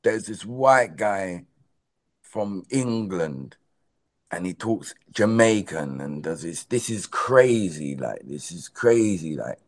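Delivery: mock amazement, drawn out slowly; imitating amazed onlookers. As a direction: play up the onlookers' slow disbelief. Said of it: "as everybody looks at it. It's like".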